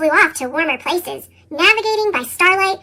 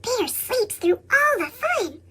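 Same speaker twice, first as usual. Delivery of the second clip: softer, slow secret whisper; 4 semitones higher, 6 dB quieter, slower than usual. Acted. Raccoon confiding to Little Owl about Bear, whispered. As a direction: let Raccoon share a secret softly. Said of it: "Raccoon whispered".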